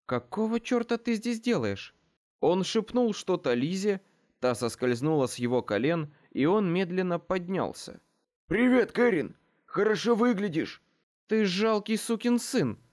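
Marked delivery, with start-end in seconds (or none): 0.1-1.9 angry demand. A narrator's reading. Murphy confronts her ex. 8.5-10.8 high, loud mock-cheerful hello; breezy greeting. A narrator's reading. Ex-husband breezily greeting the furious Murphy, high and cheerful. 11.3-12.8 high, sharp angry snap; snapping insult. A narrator's reading. Murphy snapping at her ex-husband, high and furious. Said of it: "огрызнулась Мёрфи".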